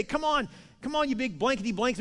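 imitated jeering challenge; taunting. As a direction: goad them like a cocky challenger. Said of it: "he's taunting them day after day".

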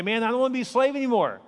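a lightly voiced fed-up poor man; voicing a poor man. Preacher voicing someone in India, tired of slavery. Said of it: "if you say".

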